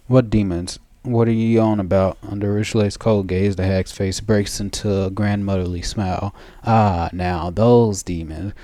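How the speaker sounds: lightly voiced wheedling old crone; a cunning grandmother playing innocent; sly old hag.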